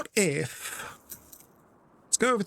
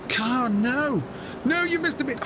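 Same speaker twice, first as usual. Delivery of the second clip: mock scream; 7 semitones higher than usual. Friend screaming on stream over a missed bit, mock scream. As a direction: imitate a streamer yelling in protest, climbing higher. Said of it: "he's screaming on stream".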